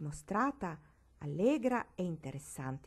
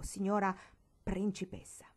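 derisive. Acted. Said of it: "l'accento di derisione".

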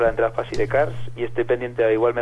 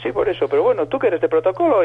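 higher Basque caller voice; imitated Basque accent; 7 semitones higher than usual. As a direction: put on the Basque woman's phone voice. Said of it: "acento vasco". (voz aguda imitando a la llamante vasca)

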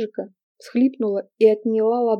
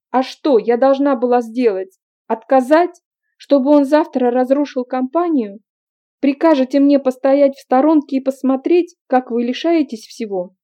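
bitter outburst; 4 semitones higher, 6 dB louder than usual. A narrator's reading. Angry outburst in quarrel.

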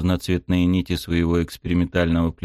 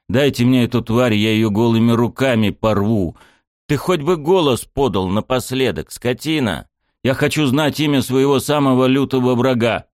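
raging shout at the unseen enemy; loud, higher furious yelling; 5 semitones higher, 3 dB louder than usual. Acted. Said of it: "накрыла дикая ярость".

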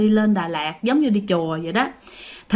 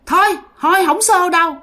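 1 ghost relenting; 6 semitones higher than usual. Acted. Ghost voiced in story.

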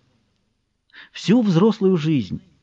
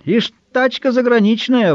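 put-on high, slow old-man voice; grudging old onlooker; old man's grumble; 8 semitones higher than usual. A narrator's reading. Old onlooker grumbles about the foreign car, high and slow. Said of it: "третий голос, старческий".

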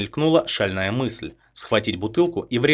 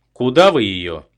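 louder, worried demand; alarmed loud question; 8 dB louder than usual. A narrator's reading. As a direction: call out in alarm. Host alarmed at the gunman. (встревоженный громкий вопрос)

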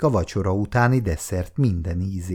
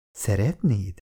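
sighed; 3 dB quieter than usual. Acted. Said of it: "sóhajtotta a nő".

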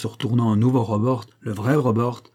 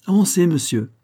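announcing; 8 semitones higher, 4 dB louder than usual. Acted. Servant announces the master.

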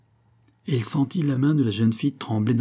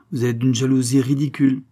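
dry, slightly louder rebuke; curt; 3 semitones higher, 4 dB louder than usual. Acted. Concepción scolds Don José curtly. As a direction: dismiss his jealousy sharply. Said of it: "interrompit sèchement Concepción".

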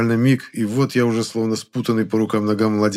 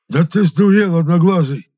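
high, loud outraged bellow; acted enraged yell at full voice; furious roar; 9 semitones higher, 8 dB louder than usual. A narrator's reading. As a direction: roar in indignation. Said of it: "взревел Епифан Роман".

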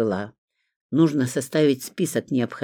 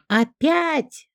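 shout; 13 semitones higher than usual. A narrator's reading. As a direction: shriek it out as she bursts in. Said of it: "с криком".

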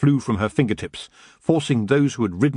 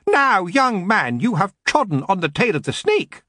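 screeching; 8 semitones higher than usual. A narrator's reading. Elf lord warns a young man, screeching. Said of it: "Lord Lankin screeched".

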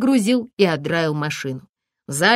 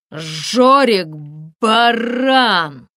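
stammering outburst; 3 semitones higher, 4 dB louder, much slower than usual. A narrator's reading. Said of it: "Эдик неожиданно начал заикаться".

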